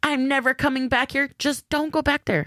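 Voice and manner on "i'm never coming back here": put-on rude, huffy yelling. Acting out a rude customer complaining at a restaurant: imitating a rude customer yelling. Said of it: "Yelling and".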